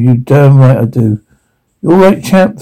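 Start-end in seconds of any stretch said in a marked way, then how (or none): 0.0-1.2 out of breath from the fistfight; winded, a touch of panting. Acted. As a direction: gasp it between breaths.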